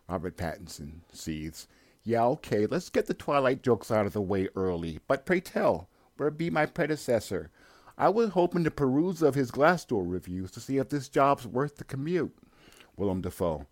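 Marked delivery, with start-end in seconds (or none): 2.0-12.3 higher, wry put-on young sailor voice; young lighthouse keeper. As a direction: play the sullen young hand, high and sarcastic.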